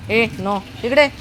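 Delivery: high, loud call to the dog; high-pitched loud calling. Real, not acted. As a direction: call Sona over.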